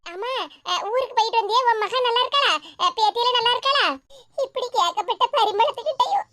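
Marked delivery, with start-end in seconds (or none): 4.4-6.3 breaking into acted sobs between phrases; tearful lament, halting. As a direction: choke up, at a loss for words. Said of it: "என்னத்துக்கு இப்படி அழுதுகிட்டு இருக்க".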